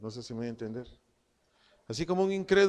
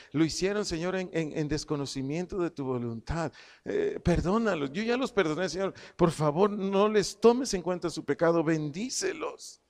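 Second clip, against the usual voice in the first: kneeling intercession; 2 semitones higher than usual. Acted. Meek man prays for those who hurt him, earnestly pleading. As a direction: beg God on their behalf, gaining force. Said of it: "dobla sus rodillas".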